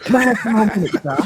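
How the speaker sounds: high, pleading Oliver Twist beggar voice; mock Oliver Twist. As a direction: beg like the Dickens orphan with a high voice. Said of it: "That's an Oliver Twist phone".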